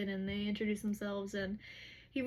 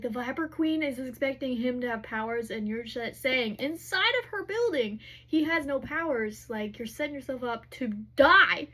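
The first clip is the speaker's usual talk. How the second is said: retold angry scolding, louder in bursts; pissed, upset; 2 semitones higher, 6 dB louder than usual. Hunt scolding Bryce over her giant risk, upset. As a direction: act out an upset telling-off, punching the worst parts. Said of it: "he's really pissed and really upset".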